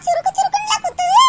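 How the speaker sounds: groaning in pain. Acted. Old aunt complaining of leg pain, groaning.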